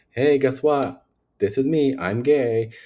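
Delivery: loud, high, bright mock reveal; hammed-up coming-out declaration; mock big announcement. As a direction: announce it like a grand surprise.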